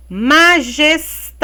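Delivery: MAJESTADE measured out, TA held; stressed syllable shown. Shown as a demonstration. Teacher quizzing pupils on the strongest syllable, Majestade stressed on TA. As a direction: stretch the TA in Majestade. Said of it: "Qual a mais forte?".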